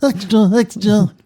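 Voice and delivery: high British paperboy call; newsboy cry. Acted. Host calls out like an old British paperboy.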